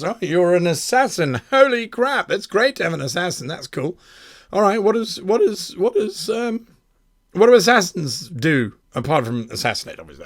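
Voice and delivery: high, excited gushing over an assassin; eager party. Pretend.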